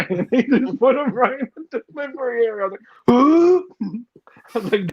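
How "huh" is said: loud, high, disbelieving huh; squeaky cry of disbelief; shocked huh. Retold or imitated. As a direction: react in total disbelief. Retold shock, wings on floor.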